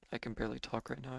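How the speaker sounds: losing voice, strained and hoarse. Real, not acted. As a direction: talk through a worn-out hoarse voice. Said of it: "Losing my voice really bad".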